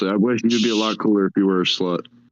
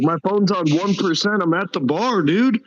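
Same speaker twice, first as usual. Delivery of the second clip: higher, slow mock-drunk whine; drunk friend; 9 semitones higher, slower than usual. Drunk Mitchell on the phone, higher and slow. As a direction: ham up a wasted buddy. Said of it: "he's like".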